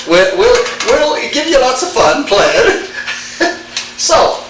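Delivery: chuckling through the words; amused, laughing while warning of hard rules; wry laugh at the tricky rule. Real, not acted. Teacher chuckles about accent rules.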